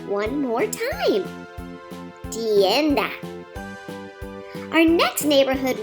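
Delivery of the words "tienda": Tienda modelled, TYEN-dah; Spanish word. Shown as a demonstration. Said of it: "Let's practice saying tienda".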